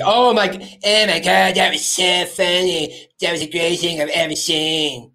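mock delight, laid on thick; sarcastic.

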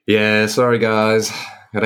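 croaky head-cold voice, slow. Real, not acted. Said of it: "you sound a little off today".

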